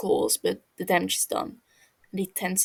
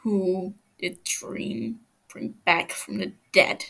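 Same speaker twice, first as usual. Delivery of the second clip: low menacing demand; slower than usual. Acted. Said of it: "he growls".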